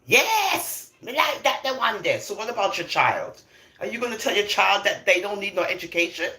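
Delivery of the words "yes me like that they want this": mocking hyped-up cheer, much higher and louder; hype crowd. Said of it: "they just wanna hype".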